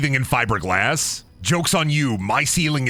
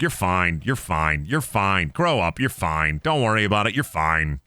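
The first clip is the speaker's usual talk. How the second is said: mock calm reassurance; 5 semitones lower than usual. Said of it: "And I'm just like".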